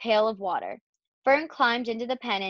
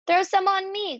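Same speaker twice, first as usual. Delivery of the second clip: put-on high, excited boy's call; playful storybook shout; Avery's eager cry; 10 semitones higher than usual. A narrator's reading. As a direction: beg for attention, pitch way up. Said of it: "cried Avery".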